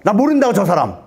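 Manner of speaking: lightly acted flustered disowning; acted denial. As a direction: deny it like a cornered man. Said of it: "그때 베드로가 부인합니다".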